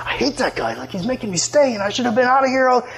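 mock grumbling under the breath; understated acted grousing; complaining. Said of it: "complaining, complaining".

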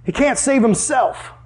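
imitating scornful onlookers, slowly; mocking. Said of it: "mocked him to one another".

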